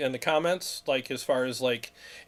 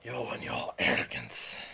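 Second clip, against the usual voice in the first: put-on snooty British accent; 4 dB quieter than usual. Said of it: "he also has a snooty accent".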